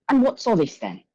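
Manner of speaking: a rough, hammed-up Irish brogue, hands on hips; bit-part Irish innkeeper accent, half-butchered. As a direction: challenge them in a mock Irish lilt. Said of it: "an Irish accent".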